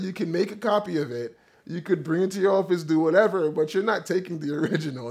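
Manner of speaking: put-on Jamaican accent. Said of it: "the accent that I'm trying to replicate".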